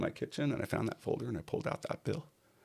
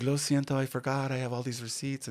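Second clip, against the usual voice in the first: sheepish apology; 8 semitones higher than usual. Retold or imitated. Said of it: "She's like".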